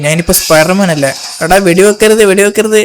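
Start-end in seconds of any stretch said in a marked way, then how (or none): 1.4-2.8 shout. Acted. Shouting at gang shooting.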